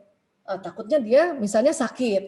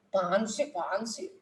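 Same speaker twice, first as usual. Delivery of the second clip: soft, low coy protest; melting, bashful wife; 3 semitones lower, 9 dB quieter than usual. Acted. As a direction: brush off a compliment shyly. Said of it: "langsung luluh tuh". (malu-malu manja, suara pelan)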